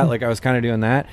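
ordinary delivery

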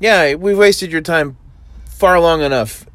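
high, loud, slow pompous proclamation; mock grand sign-off. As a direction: announce it with hammed-up gravity.

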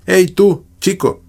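calling out. A narrator's reading. Girl hailing the blond boy across the park, calling out. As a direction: call across to the blond boy, high and bright. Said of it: "llamé al rubio".

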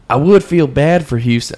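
lightly put-on Southern accent. Imitating online posters about Houston, Southern accent. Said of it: "doing a Southern accent".

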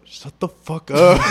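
dragged out into helpless laughter; laughing. Real, not acted. Retelling the outburst to a friend, breaking up laughing.

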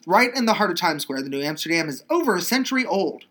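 lively, emphatic script reading; exclamation-point excitement. Real, not acted. Host telling listeners the New Amsterdam's age, with excitement. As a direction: read it as if it ends in an exclamation mark. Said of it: "That's got an exclamation point".

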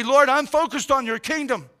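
sample prayer. Shown as a demonstration.

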